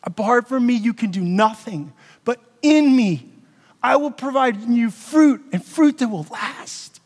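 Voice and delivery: slow, impassioned scripture quote; getting emotional. Real, not acted. Pastor quoting Jesus to the church, emotional and slow. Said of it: "I'm, like, getting emotional".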